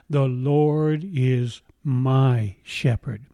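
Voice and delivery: slow and deliberate, savouring each word; drawn-out sincere affirmation; slow heartfelt declaration. Real, not acted. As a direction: say it as your own personal confession. Personal declaration of the psalm.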